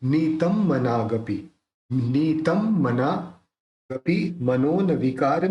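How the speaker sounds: slow "नीतम मनागपि" with the बिंदी said as m, "नीतमम् मनागपि"; teaching the nasal as m, slowly; careful pronunciation. Shown as a demonstration. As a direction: draw out "नीतम मनागपि", closing the lips on the m. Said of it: "इस ये जो बिंदी है उसका उच्चारण अपन म करेंगे।".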